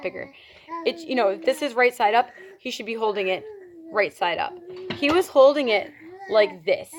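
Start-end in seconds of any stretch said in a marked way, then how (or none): 5.0-6.9 overdone, showy retelling of how he held it; exaggerated demo. Shown as a demonstration. Showing the vlog how he held the box, overdone. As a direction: play it up big, a touch theatrical. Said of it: "Maybe not so dramatic".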